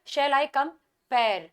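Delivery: "Shall I compare" slowly scanned, beat on "pare"; slow metrical demo, "comPARE" stressed. Shown as a demonstration. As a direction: draw out "Shall I compare" toward a stressed last syllable. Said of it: "ये आपका यहाँ पे stressed में".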